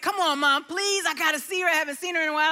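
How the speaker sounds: a touch of wheedling; pleading. Retold or imitated. Son begs his mom to let him see her, pleading.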